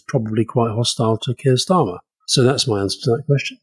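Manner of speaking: unruffled, deliberately paced reply; calm. Real, not acted. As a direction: answer calmly, taking your time. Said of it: "That was calm".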